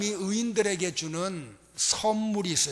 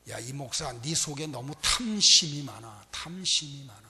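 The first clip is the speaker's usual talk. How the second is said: God rebuking; 5 semitones lower than usual. Retold or imitated. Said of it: "책망을 하셔".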